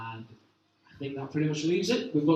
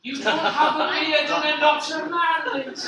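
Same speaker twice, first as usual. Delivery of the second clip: laughing; 9 semitones higher, 5 dB louder than usual. Real, not acted. Teasing while laughing.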